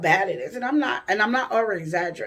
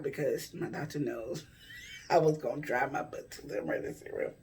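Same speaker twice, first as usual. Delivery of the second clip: chuckling through the words, trailing lower and softer; laughing; 5 semitones lower, 7 dB quieter than usual. Real, not acted. Patient admitting her doctor knows her too well, laughing. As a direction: tell it through an amused laugh. Laughs while telling on herself.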